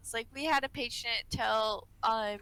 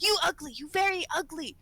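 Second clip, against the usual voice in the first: raised, insistent mock Asian-accented insult; imitated Asian accent; 4 semitones higher than usual. Nurse retelling patient insulting her, imitated Asian accent. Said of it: "when he says it in that accent".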